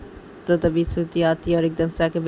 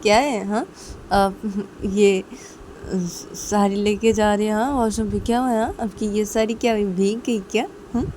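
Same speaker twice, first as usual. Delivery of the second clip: higher, needling brother voice; playful taunting brother; teasing younger brother; 3 semitones higher than usual. Acted. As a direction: poke fun at big sister. Ravi teasing his sister.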